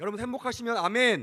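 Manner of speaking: loud, high calling-out voice.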